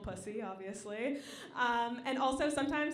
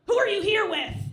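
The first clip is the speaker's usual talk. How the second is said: higher, louder challenge; mock security guard; stern guard; 8 semitones higher, 11 dB louder than usual. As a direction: demand who she's with.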